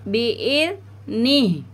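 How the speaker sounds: बिइज़्निह recited slowly, no whistling; no whistle. Shown as a demonstration. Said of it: "हमें यहाँ पे पढ़ना है बिइज़्निह".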